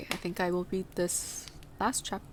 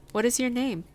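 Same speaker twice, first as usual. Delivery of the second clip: put-on higher-pitched child's question; lightly voiced inquiring girl; 5 semitones higher, 3 dB louder than usual. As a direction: ask lightly as a curious girl.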